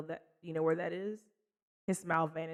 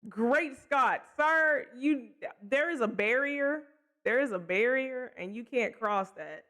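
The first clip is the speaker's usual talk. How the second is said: higher, slowed, a hint of a fussy gentleman; lightly voiced outraged gentleman; mock prim scolding; 5 semitones higher, slower than usual.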